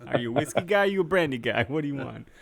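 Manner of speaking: a Boston accent creeping in; a light Boston lilt asking about drinks; slipping Boston accent. Real, not acted. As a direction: ask it like a Boston local. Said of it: "the Boston accent's coming out".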